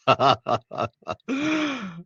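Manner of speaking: a real high burst of laughter; amused high cackle. Real, not acted. Laughing at a funny comment.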